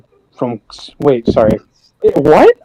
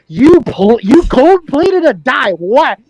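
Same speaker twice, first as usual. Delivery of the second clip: incredulous; 7 semitones higher, much slower than usual. Real, not acted. Incredulous reaction to electroplating.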